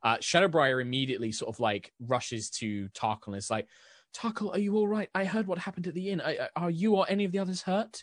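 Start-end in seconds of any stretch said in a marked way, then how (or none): 4.1-8.0 high, worried rush of questions, fast in the middle; a friend rushing over in alarm; anxious rush. Acted. Rushes to Tarkle, worried.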